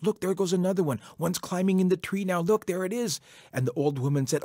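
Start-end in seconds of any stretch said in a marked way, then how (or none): 0.0-3.2 high, excited calling; mild mock yell, higher pitched. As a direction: point things out eagerly, voice raised. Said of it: "Coyote kept yelling out".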